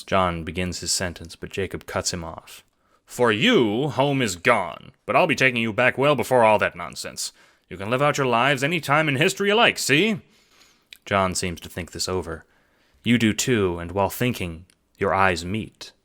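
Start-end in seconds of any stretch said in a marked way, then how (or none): 3.1-10.2 higher, louder, fast-talking pitch; eager schemer. Acted. Jacob pitching the assassination job, eager and hustling. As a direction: sell the plan like a hustler.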